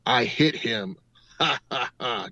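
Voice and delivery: hint of a growly ghost; growly creepy voice. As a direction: imitate a creepy spirit, then a mocking ha-ha-ha. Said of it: "you hear this growly, creepy voice say".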